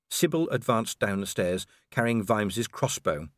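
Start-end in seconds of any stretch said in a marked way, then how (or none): none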